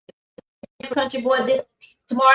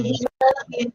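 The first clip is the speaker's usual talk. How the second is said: whisper; 2 semitones higher than usual. Acted. Co-host teasing the DPS lady.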